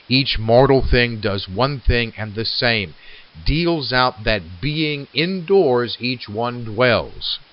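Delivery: slow, measured recitation of verse; poem reading. Acted. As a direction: read it like a poem, letting the lines breathe. Reads poem lines aloud.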